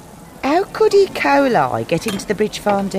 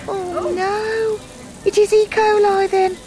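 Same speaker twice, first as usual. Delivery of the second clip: loud, high shocked exclamation; 9 semitones higher, 3 dB louder, slower than usual. Acted. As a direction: blurt it out in alarm. Shocked realisation of outbreak.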